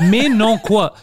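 high, loud imitated French protest; hammed-up French accent; mock French from France. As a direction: parody an exasperated Frenchman. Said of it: "juste les Français".

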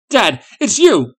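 high, loud, drawn-out joyful call; slow, high, amazed yell; shouted. A narrator's reading. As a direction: shout to a long-lost dad. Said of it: "he shouted as he ran".

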